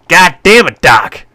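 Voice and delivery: sudden shouted curse; surprised scream. A narrator's reading. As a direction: yell it, jolted by the rock. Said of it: "I screamed in surprise".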